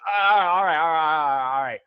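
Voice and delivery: a hint of a gruff old man calming someone; placating old man. Old man calms troll.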